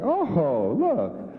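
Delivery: bright mock delight, pitch jumping up on look; mock delighted surprise. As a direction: pretend to be thrilled by a silly gift. Mock delight opening a gift.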